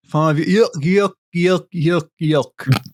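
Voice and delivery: cartoon dog guffaw, yuck yuck; Goofy laugh. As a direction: chuckle like Goofy. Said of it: "You sound like Goofy laughing".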